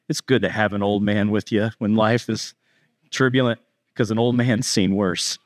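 low-pitched, unruffled reassurance; lightly voiced calm old sailor; calm old man. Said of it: "the old guy's just calm".

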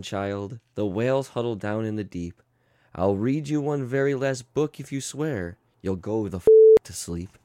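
lightly soothing storybook read; tender bedtime read with angry asides; bedtime story reading. Acted. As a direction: read it like a lullaby book. Reads bedtime story parody.

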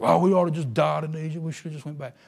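murmuring complaint. Retold or imitated. Israelites murmuring against Moses, mock grumbling. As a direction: imitate the grumblers with a loud opening groan of regret. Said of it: "instead of murmuring against Moses".

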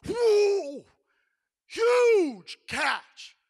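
be stunned by the weight of the net; amazed. Acted. Fishermen haul the catch, loud amazed cry.

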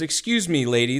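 high, indignant British gentleman; posh British. Retold or imitated. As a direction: scold her like a proper Englishman. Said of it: "very British".

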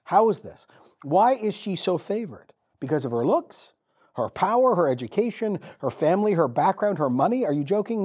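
a light, rising voicing of startled Mary; Mary's mock disbelief. Preacher voices Mary doubting the angel with mild disbelief. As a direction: play Mary, unable to believe it. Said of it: "I guarantee she was like".

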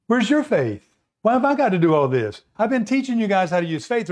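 mock fed-up teacher; exasperated scolding. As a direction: scold pupils who should know better. Jesus scolds his disciples.

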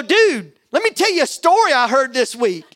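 animated retold appeal; eager pitch, retold. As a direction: retell it like a keen pitch to a pal. Acting out his pitch to the man.

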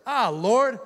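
high, loud exasperated groan to God; hammed-up exasperated plea; Jonah. Prophet praying to the Lord, mock exasperation. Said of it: "That's exactly what Jonah sounded like".

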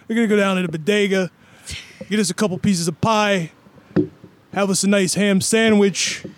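New York street voice; lightly voiced New York guy; Tracy Morgan impression. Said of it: "going more for Tracy Morgan".

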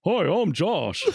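lightly voiced parody of a coworker saying hi; imitating Josh. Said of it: "Kevin doing his imitation of Josh".

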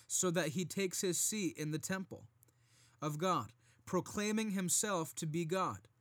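firm, measured Bible reading; scripture reading. Acted. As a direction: read the verses with preacher weight. Reads scripture aloud.

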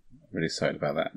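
hushed whisper. Real, not acted. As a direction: keep it down so they don't hear. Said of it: "Why are we whispering?".

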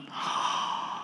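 Peter's shocked little gasp; mock gasp. Peter hearing the teaching, mock gasp. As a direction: gasp like a stunned disciple. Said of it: "Peter's going".

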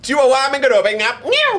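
giggling through the joke; laughing. Real, not acted. Friend joking that a chihuahua bites the villain.

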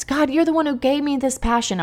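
imitating her own tearful plea; retold crying prayer. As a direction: plead with God, a little choked. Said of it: "I'm crying".

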